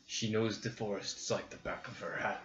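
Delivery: lightly voiced gruff orc. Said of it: "Orc voice".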